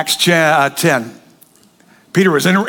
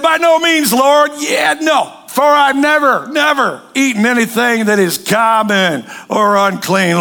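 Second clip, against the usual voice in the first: Peter's protest; 3 semitones higher, slower than usual. Acted. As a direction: push back hard, indignant. Peter refusing the Lord.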